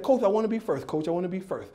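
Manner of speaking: eager lisping four-year-old, lightly voiced; imitated lisp on "coach" and "first"; toothless kid lisp. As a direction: plead like a gap-toothed little kid. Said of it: "he didn't have any teeth".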